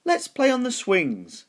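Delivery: a small skeleton pleading to play; little skeleton voice. A narrator's reading. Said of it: "said the little skeleton".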